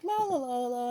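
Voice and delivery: high, lilting mock bee babble; imitated bumblebee. Storyteller imitating a big bumblebee on the lawn, high singsong. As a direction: play a bumblebee going la-la along. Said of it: "this big bumblebee's like".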